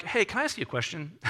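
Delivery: softly acted, careful opener. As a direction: ease in gently with a polite question. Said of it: "he comes in a little bit softer".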